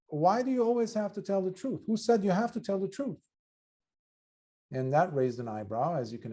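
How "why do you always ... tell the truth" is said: lightly voiced monk's provocative question, pitched higher; teacher monk challenging. A monk challenging his student about telling the truth, lightly voiced. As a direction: pose it like a teasing teacher. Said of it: "he said".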